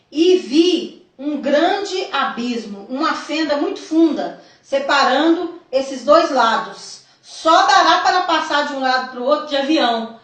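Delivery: deliberate, emphatic reading aloud; solemn testimony reading. A narrator's reading. Telling the church of a vision from Jesus, solemn reading. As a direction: read it out as a weighty revelation. Reads out written vision account.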